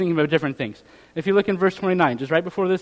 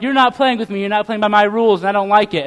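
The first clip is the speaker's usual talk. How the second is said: put-on complaining bratty kid; 3 semitones higher, 4 dB louder than usual. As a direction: imitate a little brat complaining. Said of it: "and they're crying about it".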